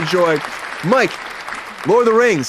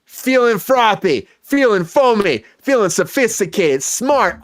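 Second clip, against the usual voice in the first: drawn-out, higher-pitched build-up; hype intro; 4 semitones higher, slower than usual. Pretend. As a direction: stretch each phrase like a hype man. Hypes up Mike's segment.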